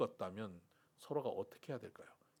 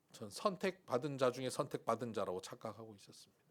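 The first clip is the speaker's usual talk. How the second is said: ordinary talk, nothing marked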